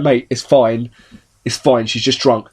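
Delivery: low, gentle soothing of a mate; reassuring. Retold or imitated. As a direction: talk a panicking friend down. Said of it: "rubbing my back going".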